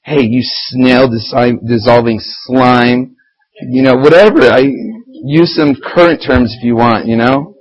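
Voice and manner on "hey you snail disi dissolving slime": slow, drawn-out taunt; a playful slow jab; mock insult. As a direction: savor each word of the insult. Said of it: "Just be like".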